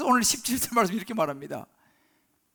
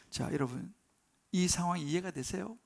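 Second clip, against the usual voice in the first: usual speaking voice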